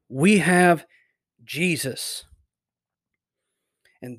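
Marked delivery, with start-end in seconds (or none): 0.1-2.2 emphatic declaration with a pause before "Jesus"; "We have... Jesus", deliberate and firm; emphatic, almost militant. Shown as a demonstration. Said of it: "It's very almost militant".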